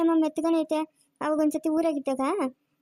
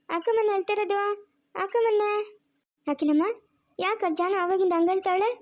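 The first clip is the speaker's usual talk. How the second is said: higher-pitched coaxing questions; gently pleading with a little one; soothing baby talk; 3 semitones higher than usual. Acted. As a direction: coo to a crying baby, pitched up.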